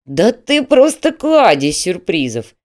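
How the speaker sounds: loud, drawn-out amused exclamation. A narrator's reading. Manager delighted by applicant's surprises, amused. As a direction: slowly marvel at him, amused. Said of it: "рассмеялся Васин".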